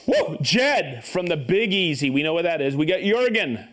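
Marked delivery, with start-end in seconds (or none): 0.1-0.4 excited whoop. Real, not acted. Cheering a viewer's shoutout.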